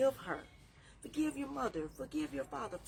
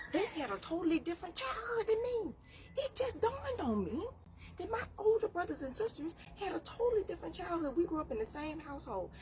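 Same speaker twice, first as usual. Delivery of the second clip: crying through the realization; real crying; 8 semitones higher than usual. Real, not acted. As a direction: choke up as it dawns on you. Realization about her siblings, crying.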